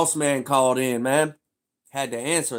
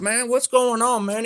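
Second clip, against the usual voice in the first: much higher, mock boss voice; imitating the boss; 12 semitones higher, 6 dB louder than usual. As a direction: voice the boss on the phone. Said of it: "He said".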